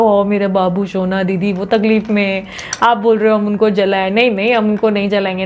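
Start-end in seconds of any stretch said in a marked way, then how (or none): 0.0-4.1 mock sappy viewer. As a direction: tease the viewer's mushy objection. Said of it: "अभी ऐसे मत बोलो".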